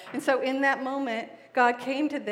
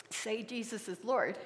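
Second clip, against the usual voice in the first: soft, hushed bedside voice; mother softly asking her small child; quiet; 10 dB quieter than usual. Retold or imitated. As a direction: speak softly beside the child's bed.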